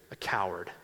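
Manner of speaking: breathy hushed whisper on the last word; whispering the word coward. Retold or imitated. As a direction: drop to a secret whisper. Priest's whispered plea to Rocky.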